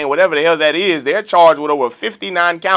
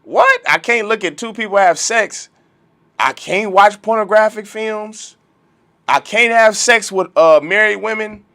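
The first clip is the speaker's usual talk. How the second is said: high, squeaky what?, then a raised, indignant protest; mock incredulous brother; 5 semitones higher than usual. A brother questioned about the laws, mock incredulous and high. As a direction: play the caught hypocrite, shocked and defensive. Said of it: "They're gonna be like".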